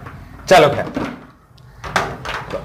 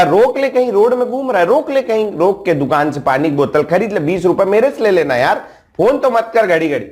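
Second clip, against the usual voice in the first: much higher, raised fed-up shouting; mock shouting down the phone at a pestering friend; exasperated yelling; 8 semitones higher than usual. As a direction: yell at him to just stop somewhere.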